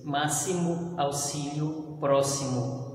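"Máximo" with the x as a hissed s, never sh. Shown as a demonstration. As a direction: say "auxílio" and "próximo" with a clear s for the x. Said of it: "mas com som de S S". (x com som de S em "Máximo")

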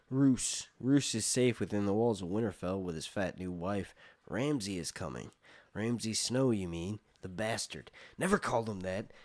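steady read-aloud storytelling; reading the chapter to the camera; story narration. A narrator's reading. Viewer hears Theon's capture told, story narration.

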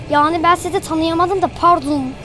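mock-girlish apology; a hint of a prissy girl, polite; lightly put-on girl voice; girly voice. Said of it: "Kız gibi konuşuyorum lan yine".

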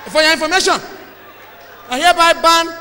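a hammed-up official banning beer by decree; mock big-man official. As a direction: boom it like a pompous governor. Mock official announcing a beer ban.

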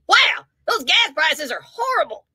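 hammed-up whiny complaint about gas prices; mock gas price moan; mock complaining whine. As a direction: whine it like a sore grumbler. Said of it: "instead of saying".

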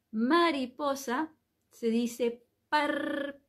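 par said very slowly and set apart; teacher dictates par to the class, slow; slow pronunciation demo. Shown as a demonstration.

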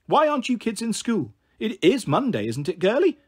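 put-on pry at the kids like a nosy pensioner; nosy old woman. Old Kath questioning the truant kids, a hint of nosy old woman.

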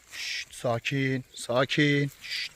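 slow, drawn-out calming shush; soothing shush. Real, not acted. Snake handler hushing agitated snakes, soothing. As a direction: stretch the words out to settle them.

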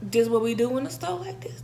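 whispered aside of disbelief. Retold or imitated. Her inner reaction to the deli fight, whispered. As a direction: hush it like a shocked bystander. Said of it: "I'm like".

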